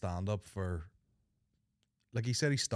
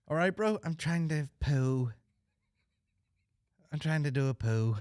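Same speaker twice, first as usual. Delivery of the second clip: mock pleading; 5 semitones higher, 5 dB louder than usual. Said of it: "He told him he was constipated".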